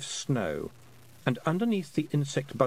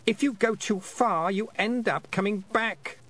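put-on boy voice; 10 semitones higher than usual. A narrator's reading. Roland voiced in story.

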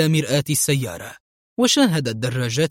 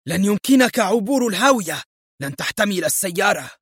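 shouting; 5 semitones higher than usual. Acted. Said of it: "وصاح فون هاملين".

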